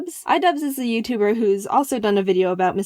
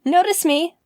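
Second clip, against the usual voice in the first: eager plea; 7 semitones higher than usual. Retold or imitated. Fan plea quoted in chat.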